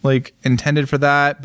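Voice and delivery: drawn-out noncommittal yeah; slow evasive hedge. Retold or imitated. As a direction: stall and hedge slowly. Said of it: "they're like".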